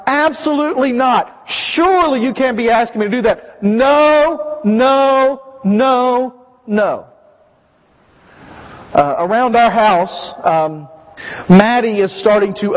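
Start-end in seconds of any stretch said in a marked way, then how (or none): 0.1-7.0 adamant repeated no, slow at first; emphatic refusal. Retold or imitated. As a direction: refuse flatly and insist. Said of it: "What he says is".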